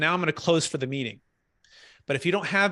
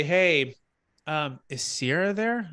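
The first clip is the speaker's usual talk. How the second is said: cautious; slower than usual. Shown as a demonstration. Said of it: "kinda cautious".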